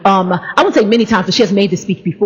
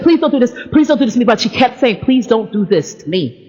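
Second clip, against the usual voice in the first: beg, dying away; mild hurt plea from a sister; pleading; 3 semitones lower than usual. Retold or imitated. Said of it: "And she said".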